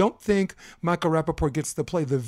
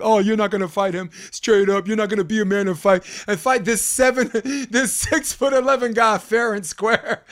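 higher, mock-indignant taunting voice, laughing through it; 5 semitones higher, 4 dB louder than usual. Imitating the critics scolding him for not fighting the tall player fairly, in a high mock voice. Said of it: "everyone's gonna be like".

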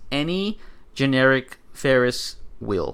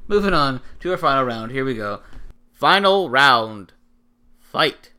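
booming fighting game announcer; 4 dB louder than usual. Acted. Podcast segment intro, announcer style.

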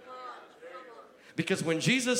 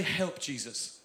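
softer, desperate little plea; a soft cry for help; quiet plea; 4 semitones lower, 6 dB quieter, slower than usual. Shown as a demonstration. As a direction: say it softly, at the end of your rope. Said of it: "learn to say".

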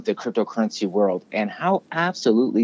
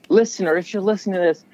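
announcer voice; 8 semitones higher than usual. Acted. Addressing podcast audience.

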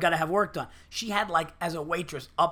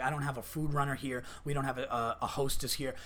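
softer, lower imitation of a complaint; muted retold grumble; 4 semitones lower, 5 dB quieter than usual. Waitress venting about missing staff, mildly muted. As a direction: list the shortages under your breath, as overheard.

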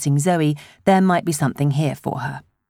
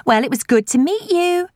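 calling after; 12 semitones higher than usual. A narrator's reading. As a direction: call it after someone leaving. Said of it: "Elaine called after him".

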